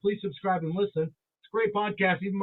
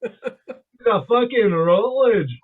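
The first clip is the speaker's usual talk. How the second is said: loud put-on Scottish accent; 5 dB louder, slower than usual. Speaker claiming his Scottish clan name, mock Scottish accent. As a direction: roll it out proudly in mock Scottish. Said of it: "motherland of Scotland".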